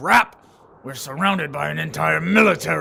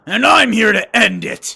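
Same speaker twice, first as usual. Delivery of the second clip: defiant declaration; 6 semitones higher, 10 dB louder than usual. Acted. Declaring to rival.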